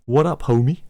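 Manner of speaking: a mild deep-voiced stranger at the door. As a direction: lightly voice a big stranger behind the door. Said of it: "you hear a deep voice say".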